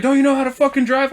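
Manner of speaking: high-pitched irate driver imitation; retold angry scolding. Truck driver berating another driver, retold angrily. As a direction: act out an exasperated accusation.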